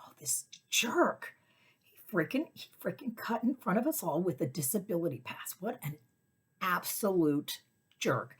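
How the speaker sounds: angry whisper. Retold or imitated. Enraged inner thought whispered.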